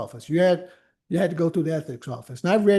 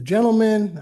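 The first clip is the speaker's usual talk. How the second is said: smiling ironic; 4 semitones higher, 4 dB louder than usual. Real, not acted. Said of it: "I'm smiling when I say it".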